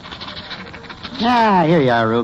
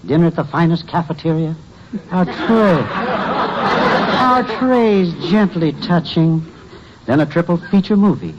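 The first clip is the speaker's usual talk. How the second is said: dreamy romancing. Acted. Clerk woos Ruby dreamily.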